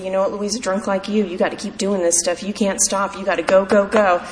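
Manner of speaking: a hint of a stern, serious mentor; serious sponsor voice. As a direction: lay it down gravely, a touch stern. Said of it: "she'd get that serious, uh, voice".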